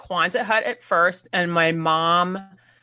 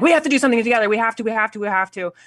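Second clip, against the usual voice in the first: retold eagerness; 5 semitones higher, much faster than usual. Retold eager plan to collaborate.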